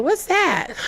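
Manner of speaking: high puzzled question through a laugh; baffled clerk. Retold or imitated. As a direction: play the clueless clerk, amused. Clerk baffled by Creole request.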